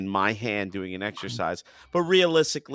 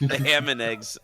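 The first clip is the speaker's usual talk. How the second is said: amused; 4 semitones higher than usual. Real, not acted. Laughing over a favourite gag.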